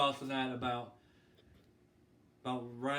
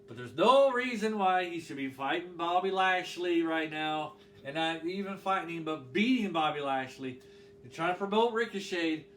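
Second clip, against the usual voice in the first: heated rant, louder and rising through the lines; getting mad; 2 semitones higher, 5 dB louder than usual. Real, not acted. Wrestling vlogger ranting about a booking decision, getting mad. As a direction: let the frustration boil over as you argue. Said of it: "I'm getting mad".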